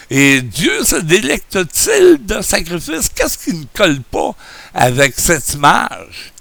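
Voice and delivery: speaking without dentures; gummy toothless speech. Real, not acted. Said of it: "comme un bon vieux vieillard édenté".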